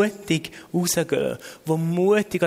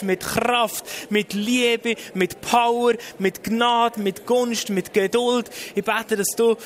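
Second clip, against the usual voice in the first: fervent prayer aloud; 5 semitones higher than usual. Real, not acted. Preacher leading the congregation's prayer to Jesus, fervent praying aloud. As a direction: pray out urgently, petition after petition.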